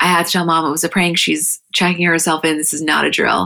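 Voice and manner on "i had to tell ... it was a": usual speaking voice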